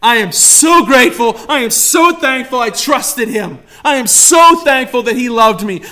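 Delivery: loud, high, fervent praise; full-force worship preaching. Acted. Preacher voicing the saved believer's joy, loud fervent praise. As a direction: pour out gratitude at full force.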